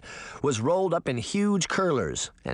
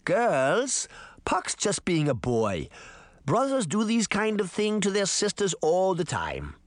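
soothing; 6 semitones higher than usual. Acted. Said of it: "Granny said soothingly".

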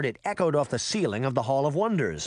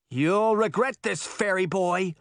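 hollow threat; 5 semitones higher than usual. A narrator's reading. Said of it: "She decided a threat".

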